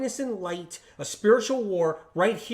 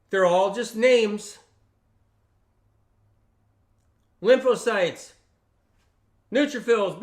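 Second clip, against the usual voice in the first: higher, louder announcing voice; grand proclamation; 4 semitones higher, 6 dB louder than usual. Acted. Speaker heralds each new immune cell being born, grand proclamation. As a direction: proclaim each phrase with a pause after it.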